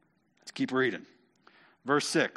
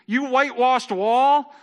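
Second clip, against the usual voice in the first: indignant high-pitched, loud outburst; spat-back retort; 10 semitones higher, 8 dB louder, slower than usual. Acted. Paul spits back at the high priest, indignant. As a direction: fling it back slowly and loudly, affronted. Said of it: "Paul spats back to the high priest".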